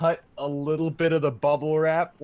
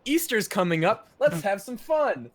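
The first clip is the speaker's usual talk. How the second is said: mocking teacher; 8 semitones higher, 3 dB louder than usual. Mocking the teacher's silly project.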